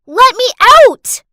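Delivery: high, very loud, drawn-out scream; screamed plea. Acted. Locked-in girl to the maids, screamed plea. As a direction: scream it out to be freed. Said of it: "I heard a scream".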